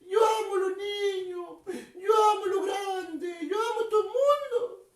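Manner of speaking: a touch of tearful whine; imitated weeping. Telling children Jesus wept on the road, mock tearful. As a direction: lightly act out Jesus crying as he speaks. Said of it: "Jesús iba llorando".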